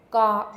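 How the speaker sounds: "Ga" said loud, stopped at the back of the tongue. Shown as a demonstration. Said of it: "I'm using the back of my tongue to stop the sound".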